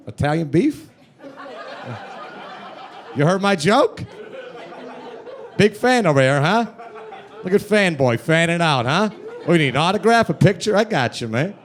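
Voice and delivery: cocky. Retold or imitated. Cocky reply to supposed fan.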